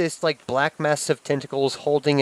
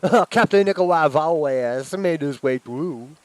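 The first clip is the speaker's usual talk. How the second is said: ominous creature voice; 4 semitones higher, 3 dB louder than usual. Acted.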